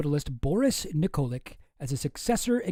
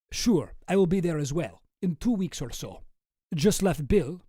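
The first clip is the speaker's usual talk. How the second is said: put-on Russian accent for an email; Boris with Russian accent. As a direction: read on in amateur Russian accent. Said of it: "a Russian accent".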